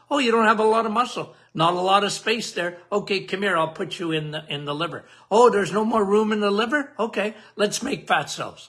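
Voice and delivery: lightly voiced chatty parking attendant, quick; insulin as attendant. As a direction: play insulin finding parking spots, brisk and casual.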